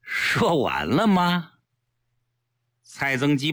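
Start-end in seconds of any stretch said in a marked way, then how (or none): 0.0-1.5 mildly cool, drawn-out question; indifferent. Acted. Unmoved listener questions the persuader, indifferent. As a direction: ask it slowly, with studied indifference. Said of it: "淡淡地问".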